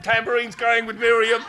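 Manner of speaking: exuberant, loud recital of a victory song; acted celebration. Preacher acting Israel's song after the Red Sea, exuberant. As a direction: declaim the verse with rising energy.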